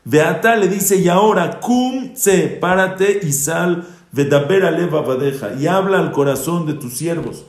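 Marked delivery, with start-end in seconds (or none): 0.0-0.6 higher-pitched, heated scolding of the king; stern rebuke. Retold or imitated. Joab rebukes the grieving king. 1.0-7.4 higher-pitched, heated scolding of the king; stern rebuke. Retold or imitated. Joab rebukes the grieving king.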